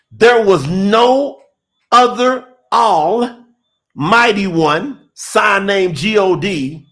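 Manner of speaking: slow, weighty scripture quote; emphatic. Retold or imitated. Preacher quoting God's words to the congregation, emphatic. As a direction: drive each phrase home with deliberate pauses. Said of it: "He's being emphatic".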